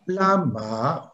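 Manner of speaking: "lama" said with its tonic accent marked; stress shown on lama. Shown as a demonstration. Showing students the tonic accent, deliberately stressed. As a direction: sound out "lama", stretching the stressed syllable. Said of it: "je vous ai mis l'accent tonique".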